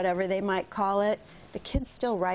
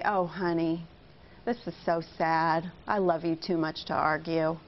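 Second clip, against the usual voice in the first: empathetic; 3 semitones lower than usual. Shown as a demonstration. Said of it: "leads with empathy".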